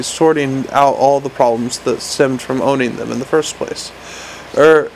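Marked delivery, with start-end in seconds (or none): 4.6-4.9 eager little imp, hoping for a yes; lightly voiced hopeful gadget. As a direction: pitch it brightly, hoping. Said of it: "said the imp hopefully".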